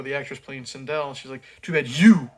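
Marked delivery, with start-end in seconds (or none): 1.6-2.3 louder, hammed-up villain threat; mock menacing line. Reviewer mocking the actress's menacing line, loud and hammy. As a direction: ham up a cheesy threat. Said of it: "they're trying to be intense and menacing".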